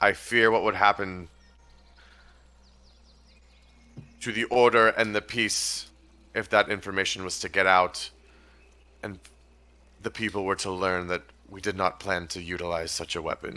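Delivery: voice dropped low. Voicing a character who speaks directly to the group, in a lowered voice. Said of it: "She'll lower her voice again".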